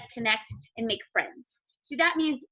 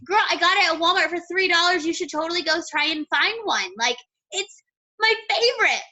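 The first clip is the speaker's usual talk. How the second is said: bubbly friendly reply; 5 semitones higher, 5 dB louder than usual. Pretend. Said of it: "She's gonna be like".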